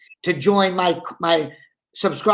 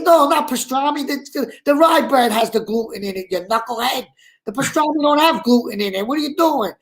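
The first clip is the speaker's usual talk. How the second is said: exasperated correcting; 5 semitones higher than usual. Retold or imitated. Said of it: "I said".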